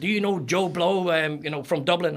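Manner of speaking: put-on high, inquisitive voice; naive American stranger. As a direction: imitate someone naively asking after a mutual acquaintance. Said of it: "you guys are crazy".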